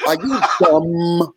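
drawn-out "dumb" in mock New York speech; tri-state accent. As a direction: stretch "dumb" slowly, tri-state style. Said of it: "they put the B on the end of it".

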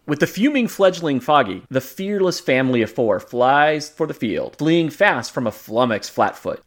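dramatic narrator. Acted. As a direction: read it like a Stan Lee caption. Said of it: "made me say this ... alliterative line".

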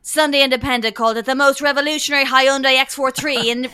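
loud mock car-ad read. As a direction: send up an intense radio advert. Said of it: "I was listening to a car ad".

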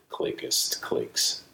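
slow unvoiced ASMR whisper. Real, not acted. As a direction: breathe it right into the mic. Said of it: "I'm gonna click in your ear".

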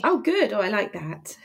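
stuffy cold voice; blocked nose. Real, not acted. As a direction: talk through a head cold, nose blocked. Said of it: "You're sounding very sexy".

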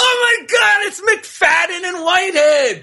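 high excited gasp of surprise; hammed-up shocked greeting; surprised. Mock surprise at visitors.

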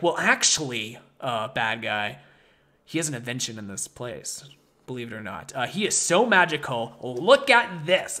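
mild mock of a clueless helper; dopey Edison voice. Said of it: "And Edison's like".

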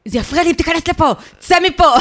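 sharp high angry outburst; angry shout. Retold or imitated. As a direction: snap at him to get out. Acted quote of roommate fighting.

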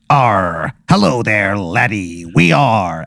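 lightly voiced pirate sea captain; a hint of a salty cereal-mascot captain; Captain Crunch. Sea captain greeting a stranded customer, lightly voiced pirate. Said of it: "Captain Crunch, he's like".

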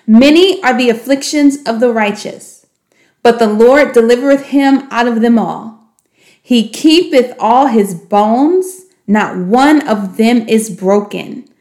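measured, slowing reading of scripture; scripture recitation. Shown as a demonstration. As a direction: recite it like a memory verse, slowing at the end.

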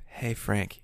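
lightly imitated calm voice; a touch of soothing hero; Charlie Cox's Daredevil. Hero greeting Frank, mock soothing. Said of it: "in a very soothing, calm voice".

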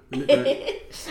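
slow, high, laughing tease; cheeky laughing. Acted. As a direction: drag it out high, giggling. Teasing co-host, slow high laugh.

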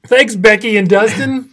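dry sarcastic gratitude; sarcastic thanks. Real, not acted. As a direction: thank them through the pain, ironically. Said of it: "This feels great".

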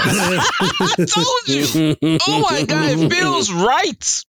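high, drawn-out excited squeal with laughter; gleeful vindication. Real, not acted. Vindicated fan celebrates Katara and Zuko.

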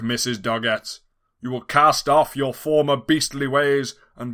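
loud, sweeping villain decree; grand villain proclamation. Acted. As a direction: proclaim it like a mad scientist.

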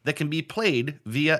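measured, emphatic news-reader delivery; mock news read. Host reading a game story to player, newsreader style. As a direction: read it out like a headline item.

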